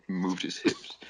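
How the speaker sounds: reading through a laugh; slow, laughing through words. Real, not acted. Reader laughing while reading.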